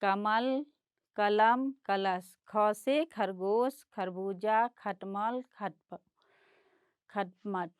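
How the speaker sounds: ख से खरगोश read slowly and clearly; slow reading aloud. Shown as a demonstration. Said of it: "इसको पढ़ेंगे". (बच्चों के लिए धीरे पढ़ना)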